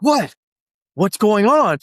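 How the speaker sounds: voicing an alarmed "what?"; startled reaction. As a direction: retell it as a startled question. Acted startled reaction in retelling.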